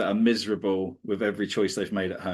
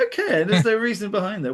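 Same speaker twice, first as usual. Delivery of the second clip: higher, fast, chirpy travel presenter; host asking a local, quick and keen; mock presenter; 9 semitones higher, faster than usual. Mock TV host, faster and higher. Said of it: "travel show interview".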